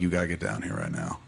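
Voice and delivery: low-key retelling of a grave call; grave urgency. Retold or imitated. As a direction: quietly pass on bad news. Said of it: "you could hear it in his voice".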